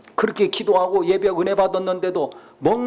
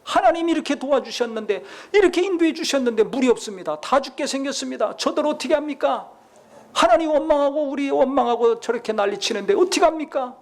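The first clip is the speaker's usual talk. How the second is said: higher-pitched pleading, not shouted; acted crying out; 5 semitones higher than usual. Moses kneeling before God over the missing water, acted pleading. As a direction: plead helplessly in an imitated prayer. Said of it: "또 부르짖었다고 나와 있어요".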